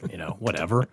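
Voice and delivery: whispered throwaway aside. Real, not acted. Brushing off the walkie-talkie plan in a whisper. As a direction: drop it to a whisper, shrugging it off.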